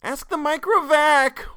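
put-on loud, very high child wail; drawn-out shrieking kid voice. A narrator's reading. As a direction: wail it slowly like a distraught little girl. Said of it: "wailed Geraldette One".

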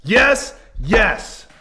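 booming high holiday character shout; loud hammed-up greeting. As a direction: burst in yelling a cheery welcome. Guest bursts in as Christmas character.

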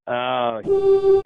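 high mock gasp of awe; impressed oh. Fans impressed by his calm.

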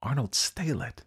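astonished question; amazed. A narrator's reading. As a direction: echo the name in disbelief. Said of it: "I repeated, amazed".

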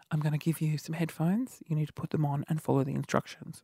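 retold hushed instruction, kept low; imitated whisper. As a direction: murmur it as if into someone's ear. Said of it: "he whispers in your ear".

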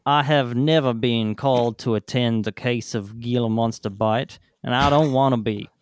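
put-on a light Southern American accent reading an old doctor's quote; a mild antebellum Southern gent, reading it out; reading the 1899 doctor's quote in a mild Southern American accent. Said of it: "That is the best accent work you have ever done".

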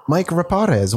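Raparez with a trilled, rolled R. Shown as a demonstration. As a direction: roll the R hard in Raparez. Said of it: "I rolled the R for you".

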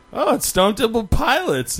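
high, drawn-out retold exclamation; excited announcement. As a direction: announce the band in a high, stretched voice. Friend announces band in retold story.

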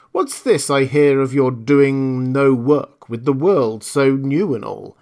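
loud, knowing magical spirit; a grand desert genie. Acted. Djinn scolds camel.

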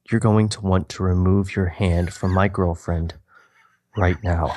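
a hint of a cold, low menace; stone cold threat. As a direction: Norman warning the man off his girlfriend, lightly menacing. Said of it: "His eyes turn stone cold and his voice more so".

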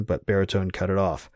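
ordinary delivery

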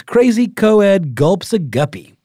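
put-on high, loud old newsreel mid-Atlantic accent. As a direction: read it like a 1930s mid-Atlantic announcer. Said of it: "like, mid-Atlantic accent".

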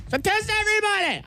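exasperated outburst. Real, not acted. Exasperated rant about testing.

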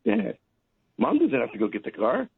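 put-on high, eager little boy; young son pleading with dad; kid's voice. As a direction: pipe up like a hopeful child. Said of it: "my son says".

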